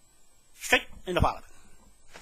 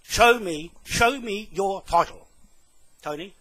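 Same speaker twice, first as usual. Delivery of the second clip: slow, forceful demand; angry challenge; 2 semitones higher, 3 dB louder, slower than usual. Real, not acted. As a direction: demand proof, drawing the words out. Angry challenge to prove title.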